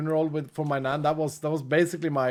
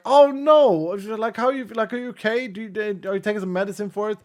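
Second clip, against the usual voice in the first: imagined caring mother; 4 semitones higher than usual. Retold or imitated. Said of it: "you'd expect a mother be like".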